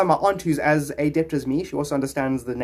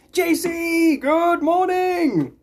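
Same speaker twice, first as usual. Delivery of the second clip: high, drawn-out cheery hello; sing-song greeting; 5 dB louder, much slower than usual. Real, not acted. Streamer welcoming a chat viewer, high sing-song greeting. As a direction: greet the viewer like a morning show host.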